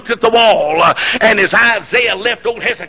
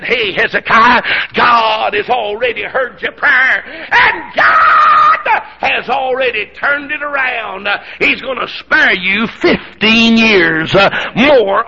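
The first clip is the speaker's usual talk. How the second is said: slow, stretched proclamation swelling to a shout; full-force preaching; much slower than usual. Acted. Prophet bringing Hezekiah God's answer, full-force preaching. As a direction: draw out every word in a soaring pulpit cry.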